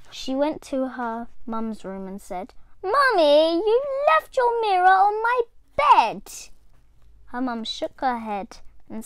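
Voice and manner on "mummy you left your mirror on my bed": put-on high, loud child's voice; puzzled and thrilled; excited little girl. A narrator's reading. Little Diane telling mum about the mirror.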